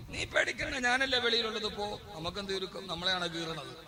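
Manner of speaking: hint at a husband's hushed reassurance, pitch dropping as it goes; reassuring husband. Acted. Husband to wife entering labour room, mock reassuring. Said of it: "അപ്പൊ അവൻ പറയും".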